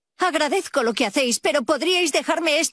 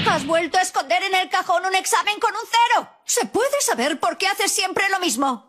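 full name scolding; 5 semitones higher than usual. Acted. Mother scolds son over exam.

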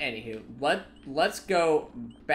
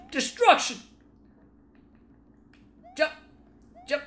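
hammed-up battle cry; 12 semitones higher than usual. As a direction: belt it like a cartoon villain. Shouting at enemies in game.

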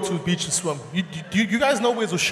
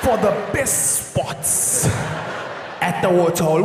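slow, low, hushed wildlife commentary; nature documentary narrator; 6 semitones lower, 4 dB quieter, slower than usual. Pretend. Documentary narrator describing the Amanzimtoti migration, slow and hushed. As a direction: narrate like a National Geographic film. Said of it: "there's even commentary in the background".

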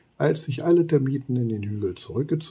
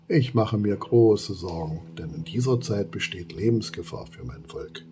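sad. Acted. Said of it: "Traurig fügt sie hinzu".

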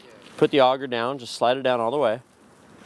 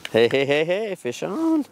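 excited call; 6 semitones higher, slower than usual. Real, not acted. Calling out a hooked fish.

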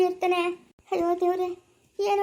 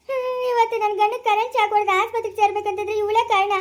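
crying out in grief, voice breaking; tearful wail; 3 semitones higher than usual. Acted. Wife wailing to her mother-in-law about her husband's shock. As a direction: sob it out as you blame her.

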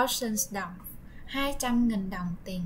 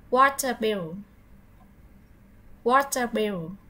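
model word; 4 dB louder than usual. Shown as a demonstration. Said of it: "So, repeat onwards".

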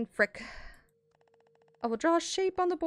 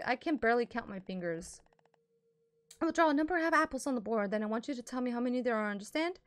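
strict teacher voice; 3 semitones higher than usual. Acted.

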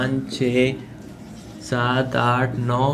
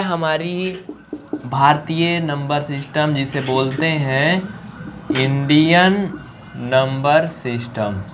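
slow emphatic naming; slower than usual. Shown as a demonstration. Teacher stresses key term slowly.

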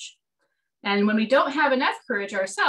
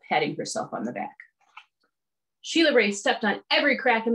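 lively storybook read-aloud with voiced characters; reading to children. A narrator's reading. Teacher reading a picture book to the class, animated. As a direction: read it like storytime for little kids.

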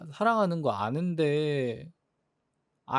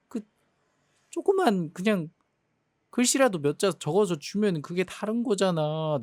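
exasperated complaint; 3 semitones higher than usual. Acted. Girlfriend complaining about anniversary gift.

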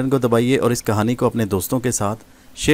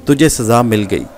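furious dismissal. Acted. Gohar ordering Nadir out of her sight, furious and scornful. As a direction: drive him away with contempt. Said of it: "بڑے غصے کے تاثرات".

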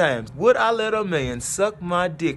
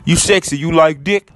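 mocking flirt voice; 2 semitones lower, 6 dB louder than usual. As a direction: ham up a creepy pickup line. Quoting DM mockingly.

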